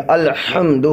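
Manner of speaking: الحمد with a strong ح from mid-throat. Shown as a demonstration. Teacher models the throat sound for students, throaty ح in الحمد. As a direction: bring the ح of الحمد out of the middle of the throat. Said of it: "بیچ حلق سے آپ ہا نکالیں گے".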